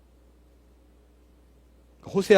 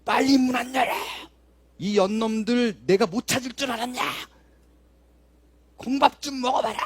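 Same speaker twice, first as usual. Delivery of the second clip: higher-pitched mock yell of a coarse woman; retold vulgar yelling; 6 semitones higher than usual. Middle-aged woman cursing at the couple's door at night, in a mock yell. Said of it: "큰 소리로 고래고래 욕을 하면서".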